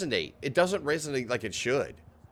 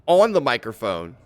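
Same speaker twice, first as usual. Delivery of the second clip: close on the mic; 2 semitones lower, 9 dB louder than usual. Shown as a demonstration. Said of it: "difference between speaking".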